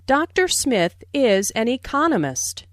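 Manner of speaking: "economist" emphasized as new information; "economist" as the key word, then a fall; stress on economist. Shown as a demonstration. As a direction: lean on "economist", stressing its second syllable. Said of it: "Notice the stress on economist".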